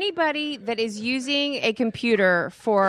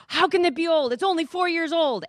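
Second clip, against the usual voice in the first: imitating Tony; 6 semitones higher than usual. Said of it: "And Tony goes".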